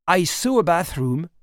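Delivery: "I saw a bathroom" with a thick French accent, playing lost; girl fakes a French accent to explain herself; heavy French accent. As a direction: stretch "saw" like a confused French tourist. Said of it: "en forçant à fond mon accent de Frenchie".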